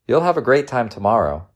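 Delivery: put-on cheering up a child; smiling reassurance. A narrator's reading. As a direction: encourage with an audible smile. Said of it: "she said with a smile".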